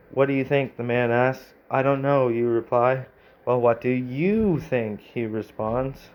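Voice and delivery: reading the story out, a touch brighter; steady storyteller read of the game text; story narration. Acted. Streamer reading the AI story aloud, narrating.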